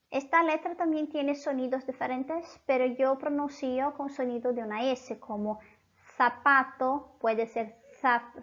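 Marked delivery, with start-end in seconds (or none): 6.2-8.4 slow "zapato" trying the Castilian th sound; attempting Spanish z. Shown as a demonstration. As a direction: reach for the lisped z in "zapato". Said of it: "eu não sei fazer esse som". (tentando o z espanhol em "zapato", devagar)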